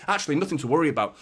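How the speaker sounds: slightly out of breath, fast; winded after kick-ups, rushing words. Real, not acted. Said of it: "I'm actually a little bit out of breath".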